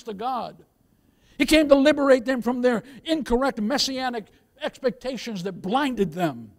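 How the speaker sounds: emphatic sermon delivery; preaching. Real, not acted. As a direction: drive the point home to the congregation. Preaches to congregation.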